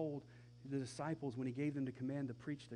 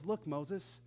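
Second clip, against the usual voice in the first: mild scolding; 3 semitones higher than usual. Acted. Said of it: "God says".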